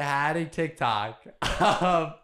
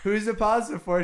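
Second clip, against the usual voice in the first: put-on Italian accent; 4 semitones higher than usual. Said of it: "in an Italian accent".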